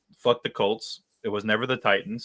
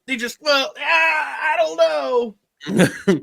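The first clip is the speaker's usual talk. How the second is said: high, loud mock commentator, dragging out the last words very slowly; Chris Collinsworth impression; 6 dB louder, much slower than usual. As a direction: play a baffled TV commentator, stretching it out. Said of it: "Stupid Chris Collinsworth. I can't do his accent".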